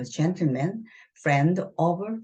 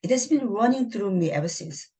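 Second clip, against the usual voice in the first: pointed dig; 5 semitones higher, much slower than usual. Acted. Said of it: "고의적으로 지금 지릅니다".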